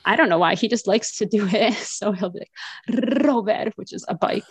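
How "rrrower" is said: Robert with a long trilled opening R; rolled R. Retold or imitated. Mother imitating her four-year-old son at play, rolled R on Robert. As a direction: roll the R hard at the start of Robert. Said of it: "he rolls his R's".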